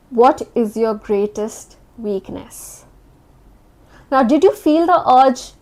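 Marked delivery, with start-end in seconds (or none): 0.1-2.8 slow interviewer question. Shown as a demonstration. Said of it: "I'll ask you a question".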